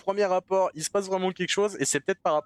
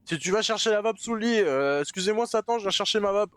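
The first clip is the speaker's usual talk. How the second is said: mock-polite plea; 6 semitones higher than usual. Reenacting timid plea to Satan.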